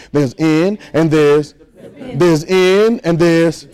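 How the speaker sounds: laughing through the words, slow. Real, not acted. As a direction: chuckle as you split the word. Laughs while teaching the word.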